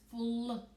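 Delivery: "Float" split into a held "fl", then "oat"; stretched-out sounds. Shown as a demonstration. Teacher has children listen for the difference, sounded-out word. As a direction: sound out "Float" slowly in two pieces. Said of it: "listen to the difference".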